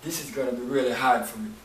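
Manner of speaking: barely holding it together; choked up. Acted. Joseph sending everyone out, softly overcome. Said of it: "he said".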